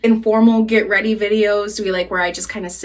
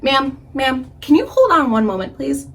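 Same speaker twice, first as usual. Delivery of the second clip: higher, polite phone-manner voice; customer service voice; 4 semitones higher than usual. Retold or imitated. Drunk caller asking the bank woman to hold, customer service voice. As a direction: put on your most professional, courteous phone voice. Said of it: "using my best customer service voice".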